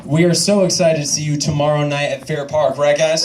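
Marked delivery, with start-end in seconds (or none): 2.8-3.2 calling the crowd. Real, not acted. Calling out to the audience.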